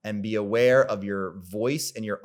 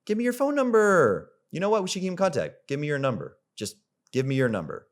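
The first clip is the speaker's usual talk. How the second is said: high-pitched, pushy number ask; high eager ask; 6 semitones higher, faster than usual. Shown as a demonstration. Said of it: "or you could say".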